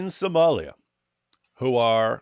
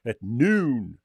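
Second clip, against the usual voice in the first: mock announcement; 6 semitones higher, 6 dB louder, slower than usual. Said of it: "like, Hey, everyone".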